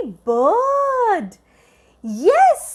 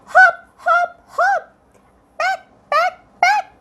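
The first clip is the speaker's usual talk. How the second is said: high, bouncy hop and peck words; playful chant; 13 semitones higher than usual. Acted. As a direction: bounce each word like a hopping bird. Acting out bird hops for kids.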